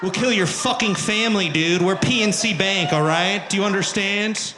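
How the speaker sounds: loud, hammed-up threat; mock gangster threat. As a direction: threaten like a mob enforcer, playing it for laughs.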